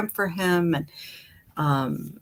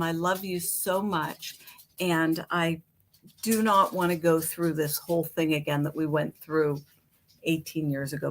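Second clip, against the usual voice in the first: tender plea; 4 dB quieter than usual. Retold or imitated.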